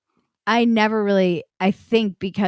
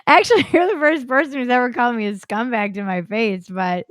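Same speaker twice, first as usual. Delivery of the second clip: laughing; 5 semitones higher than usual. Retold or imitated. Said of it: "stop laughing".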